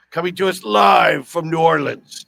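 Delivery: excited announcer. Acted. Announcing co-host live.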